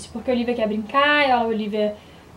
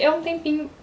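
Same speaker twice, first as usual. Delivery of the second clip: hiccuping mid-sentence; words broken by a hiccup; 2 semitones higher than usual. Real, not acted. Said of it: "eu tô com um soluço".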